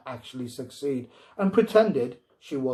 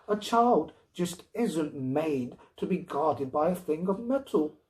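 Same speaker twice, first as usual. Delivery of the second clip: higher-pitched, firm scolding; insistent wife; 4 semitones higher than usual. Acted. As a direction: lay down the law to him. Wife argues against robot.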